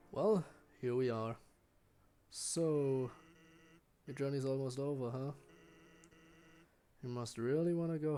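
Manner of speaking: lightly voiced laid-back skeleton; easygoing hint of a lazy joker; chill Sans voice. Sans gently urges the human to stay, lightly chill. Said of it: "I hope I can do the voice".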